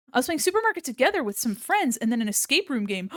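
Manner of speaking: ordinary talk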